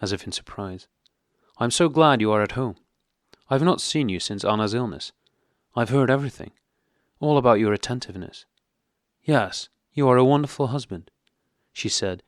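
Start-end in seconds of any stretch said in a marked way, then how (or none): 1.6-11.1 higher, louder society gush; effusive, knowing flattery; affable gushing. Acted. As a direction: lay on the charm for the husband. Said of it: "with a significant and affable expression".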